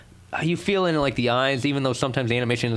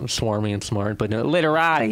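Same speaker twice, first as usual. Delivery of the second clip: Boston accent. Shown as a demonstration. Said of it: "that's my Boston accent trying to be".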